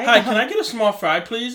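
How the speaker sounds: high, loud, mock white American politeness; whitest white voice. Ordering fries at the drive-through in an exaggerated white American voice. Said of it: "I said it in my whitest voice ever".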